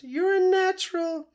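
put-on high, loud, hearty old goose voice; a big-hearted mother goose praising a gosling; old goose Loudwing.

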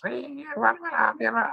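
mock the squeaky guy; lightly squeaky imitation. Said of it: "All right, squeaky voice".

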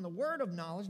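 "word" weighted over "knowledge"; stress on word. Shown as a demonstration. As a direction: lean on "word", keep "knowledge" lighter. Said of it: "The emphasis is on the word".

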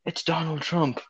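hushed reveal into the mic; stage whisper. Retold or imitated. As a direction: drop the volume for a secret reveal. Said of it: "Whispers into mic".

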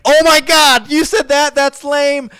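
high, loud mock disbelief; mock disgusted reaction. Podcaster mocking the movie's line, high and loud. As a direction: squeal it like a scandalized fan. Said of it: "And right then I was like".

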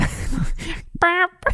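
high buzzing kazoo toots; imitated kazoo. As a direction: toot like a kazoo, breaking into laughs.

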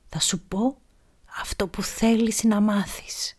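put-on faint, halting voice of a dying old pirate, falling to a whisper; a weak last plea to the baron. Dying prisoner's last request. (σβησμένη φωνή ετοιμοθάνατου)

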